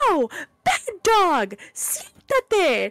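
very high, swooping, drawn-out yell. Telling a story, the speaker reenacts yelling at a giant rabid dog, retelling the yell. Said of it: "I'm like yelling at this dog".

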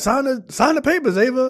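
put-on wrestling promo yell. Retelling a man demanding papers be signed: imitating someone yelling. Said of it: "Why are you here yelling at me?".

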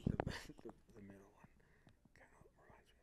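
hushed whisper. Leaning in to share a secret with the listener, whispering a secret. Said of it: "I need to whisper a secret to you".

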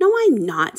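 hot, heated anger. Harry answers Malfoy's taunt to the crowd, angry. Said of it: "said Harry angrily".

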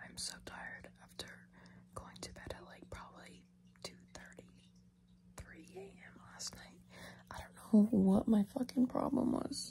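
very quiet hushed whisper. Speaker who could not sleep the night before talks, whispering. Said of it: "I don't know why I was whispering".

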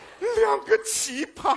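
furious, angry outburst.

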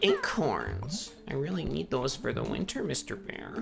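very quiet, soft, creaky little critter voice. Playing a game, voicing a small creature speaking to mr. bear, put-on critter voice. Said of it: "I think it's a good voice for him".

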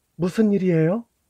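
piercing, shrill, high voice. A wife looks out from inside as a visitor arrives: shrill voice. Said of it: "부인이 새된 목소리로 말했다".

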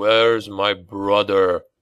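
rasping, hoarse, croaking voice. Wolf speaks as the marauders retreat, croaked through bloody teeth. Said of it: "he croaked through bloody teeth".

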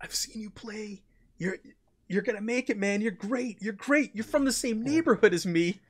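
shaky, nervous, soft, trembling starstruck babble. Retelling a fan holding out his book for an autograph, imitating a fan shaking. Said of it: "he's kind of like shaking".

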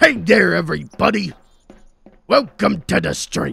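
very loud, rough-edged voice. Showing the funniest voice you imagine for FLG welcoming everybody to the stream, as an impression of an old-time entertainer. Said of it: "the funniest voice for FLG to have would be like".

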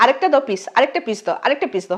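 plain

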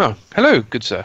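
put-on male dwarf librarian character voice. Voicing the librarian, a male dwarf, greeting a player: male dwarf librarian voice. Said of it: "who is a dwarf, male dwarf".

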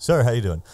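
acted businesslike, courteous small-talk tone. Retelling a friend greeting an angry dad: imitating office-meeting politeness. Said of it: "like it's an office meeting".

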